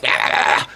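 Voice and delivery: imitated harsh wordless yell; a yell mimicking an angry officer; mock shout. Policewoman marching up to the rider, mock shouting. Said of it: "starts shouting halfway across".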